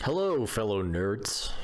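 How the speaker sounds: slow, nasal-free nerdy greeting; drawn-out dorky hello; nerd voice. Acted. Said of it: "my nerd voice did get called out".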